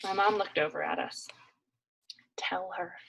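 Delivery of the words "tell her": silent, breathy whisper; mouthed. Acted. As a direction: urge her without sound. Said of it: "my dad mouthed".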